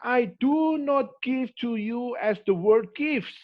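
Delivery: slow, weighty scripture quote in English; slow solemn quote. Retold or imitated. Preacher quoting Jesus to the congregation, slow and solemn. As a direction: lay out each word deliberately.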